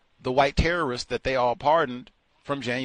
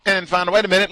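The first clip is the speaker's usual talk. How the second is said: ordinary talk, nothing marked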